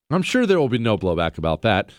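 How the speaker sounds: normal talking voice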